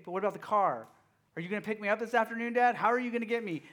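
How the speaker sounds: fast, high fretting that builds into a mock panicked wail; worried child. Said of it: "she's worrying".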